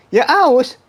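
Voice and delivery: loud, high retort breaking into laughter; laughing exasperation. Real, not acted. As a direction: protest the obvious through a laugh. Answering an absurd question, laughing.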